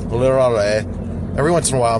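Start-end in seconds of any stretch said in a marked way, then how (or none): 0.0-0.9 "literally" slurred in a Philly accent; light Philly slip on "literally". Shown as a demonstration. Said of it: "my Philly accent sneaks in".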